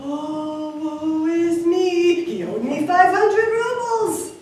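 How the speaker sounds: high, loud mock wail; theatrical lament. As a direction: bemoan your loss in a drawn-out wail. Host wails over losses.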